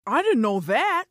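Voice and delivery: talking through a mouthful of pecans; mouth full. Acted. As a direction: say it while chewing. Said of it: "Don't talk with your mouth full".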